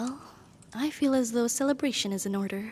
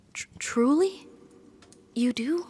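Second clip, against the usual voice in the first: stammer, then a higher, questioning lift; surprised disbelief; 3 semitones higher, 4 dB louder, slower than usual. Acted. Servant hears master return the feeling, surprised disbelief. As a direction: ask it as if hardly daring to believe.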